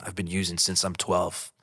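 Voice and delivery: soft, retold apology between breaths; a hint of crying out "sorry"; sobbing apology. Son to his mother at the door, mild retold sobbing. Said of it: "in between my breaths".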